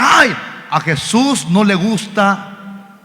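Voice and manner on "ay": high-pitched mourner's cry; mock wailing. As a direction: imitate a grieving family's wail. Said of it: "Y todos estaban llorando".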